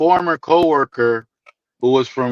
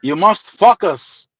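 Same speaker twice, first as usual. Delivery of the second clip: put-on Greek accent; slower than usual. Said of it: "in his heavy accent".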